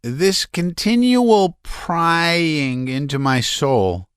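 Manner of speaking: high, strained, nervous voice; a man near hysterics pouring it out; agitated Laevsky. A narrator's reading. Laevsky raving.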